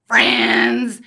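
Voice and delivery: mock reading of the letter's Friends; quoted word. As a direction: land on Friends with a loud fall. Quoting breakup letter.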